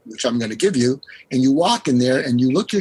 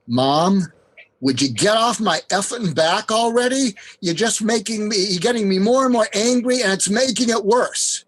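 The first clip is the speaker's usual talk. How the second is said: higher-pitched mock teen rant at no extra volume; fed-up teenager; 7 semitones higher than usual. Teen venting to mom about nagging over homework, exasperated. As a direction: act out an exasperated kid venting at a parent. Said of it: "say it with feeling".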